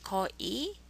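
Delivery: 거의 with the 의 said as plain 이; simplified vowel. Shown as a demonstration. Teacher easing a hard sound for learners, 거의 ending in plain 이. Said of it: "pronounce it as if it's just 이".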